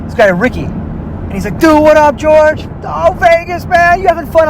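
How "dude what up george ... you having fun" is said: high, hyped-up buddy voice; excited greeting. Retold or imitated. Friend Ricky hails him on the Vegas strip, high and hyped.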